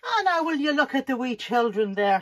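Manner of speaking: lightly put-on Irish accent, musing on the wee children; a hint of an Irish lilt, fond and musing. Musing over the wee children in a light Irish accent. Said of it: "Sorry about the Irish accent".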